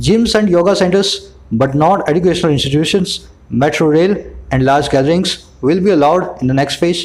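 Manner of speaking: slow, even English read for lip-syncing; model reading to copy. Shown as a demonstration. Teacher models the accent for students to lip-sync, slow and deliberate. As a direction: speak it slowly so they can copy you. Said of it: "जैसे मैं बोलता हूँ अभी".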